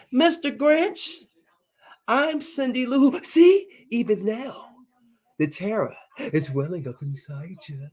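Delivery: high, slow, theatrical Grinch voice; Grinch quoting Cindy Lou. Retold or imitated. Streamer plays the Grinch answering Cindy Lou, high slow theatrical. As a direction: keep the grand high Grinch drawl. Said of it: "she says".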